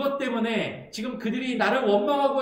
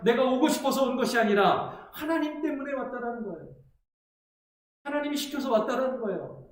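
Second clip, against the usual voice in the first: higher, insistent protest; indignant Moses; 3 semitones higher than usual. Retold or imitated. Pastor voicing Moses defending himself, mildly indignant. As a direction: argue that you only did as told. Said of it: "라고 이야기하는 거예요".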